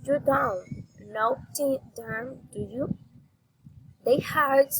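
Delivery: statement, then lift the tag "do you"; rising intonation. Shown as a demonstration. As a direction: question tag "were you" turned upward. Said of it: "raising intonation".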